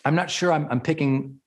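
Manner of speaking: calm, caring question; gentle coaching check-in. Shown as a demonstration. Coach on Zoom to client, calm caring check-in. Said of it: "I say it all the time".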